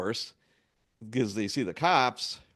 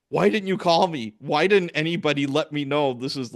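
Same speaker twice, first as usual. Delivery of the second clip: angry scolding; 4 semitones higher, 5 dB louder than usual. Retold or imitated. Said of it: "oh, I was so mad".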